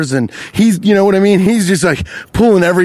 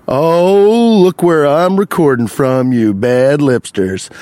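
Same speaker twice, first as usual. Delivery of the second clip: showy call-out; slower than usual. Real, not acted. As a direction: show off to the followers, stretching the words. Addressing followers for an Instagram post.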